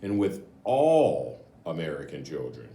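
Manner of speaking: measured, even book-jacket reading; blurb read aloud. Acted. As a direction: read it like the back cover for the listeners. Reads the book's back cover.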